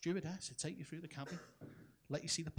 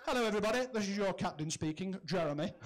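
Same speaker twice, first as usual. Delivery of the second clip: smug, louder tannoy voice; smug captain; 4 dB louder than usual. Retold or imitated. Captain over tannoy to passengers, smug and louder. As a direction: announce it pleased with himself. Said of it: "You can hear the smugness in his voice".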